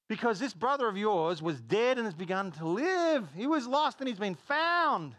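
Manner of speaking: high, loud, jubilant preacher's shout; exultant proclamation. Acted. Preacher voicing the father's joy over the found brother, exultant. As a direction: proclaim it joyfully, stretching the final words.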